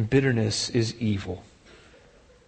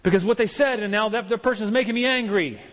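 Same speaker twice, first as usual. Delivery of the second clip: mock excuse; 7 semitones higher than usual. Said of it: "sometimes we can think".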